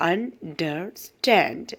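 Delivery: അണ്ടർസ്റ്റാൻഡ് said slowly, stress on സ്റ്റാൻഡ്; teacher slowing അണ്ടർസ്റ്റാൻഡ് for the class; slow stress demo. Shown as a demonstration. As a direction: drag it out and lean on സ്റ്റാൻഡ്. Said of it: "ആ ഒരു ഭാഗം stress ചെയ്ത് വായിക്കണം".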